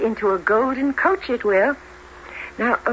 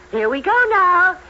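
theatrical magician; 2 semitones higher than usual. Acted. Fairy godmother casts a spell.

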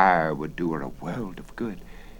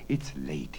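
whispering; 3 semitones lower, 6 dB quieter than usual. Acted. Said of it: "he whispered".

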